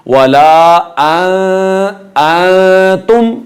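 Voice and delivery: अंतुम with long hidden nasal n; ikhfa. Shown as a demonstration. Teacher demonstrating the rule, ikhfa. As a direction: hum through the n of अंतुम, slowly. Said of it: "यहाँ इख्फा किया जाएगा".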